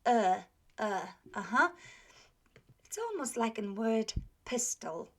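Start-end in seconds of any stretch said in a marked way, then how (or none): 0.1-0.4 "E" sounded back in the throat; deep in throat. Shown as a demonstration. Teacher modelling a Polish vowel, throaty and separate. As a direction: say "E" deeper in the throat, held. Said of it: "pronounced deeper in the throat".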